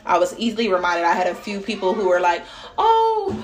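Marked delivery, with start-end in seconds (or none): 2.8-3.3 high, eager customer voice; imitating a customer. Customers reassuring her they will buy, in a lightly mocking high voice. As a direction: sound keen and loyal.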